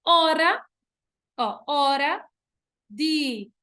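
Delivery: "Ora, direis" in slow separated chunks; syllable by syllable. Shown as a demonstration. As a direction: chop "direis" into di, reis with pauses. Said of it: "Vou exemplificar".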